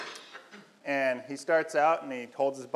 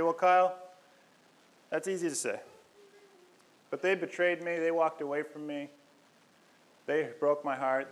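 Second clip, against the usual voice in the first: mild mock complaint, higher pitched; objecting listener; 3 semitones higher than usual. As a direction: push back at the preacher, hurt. Voicing an imagined listener's objection.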